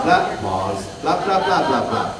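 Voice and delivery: staccato "blah" groups broken by a pause; rhythmic with pauses. Shown as a demonstration. Presenter showing the lip-flap pattern, rhythmic with pauses. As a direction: beat out each "blah", pausing between groups. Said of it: "there was a pattern to that".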